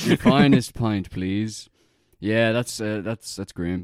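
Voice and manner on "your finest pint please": slow, louder grand request; mock posh order. Pretend customer ordering the finest pint, slow and grand. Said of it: "imagined bar order".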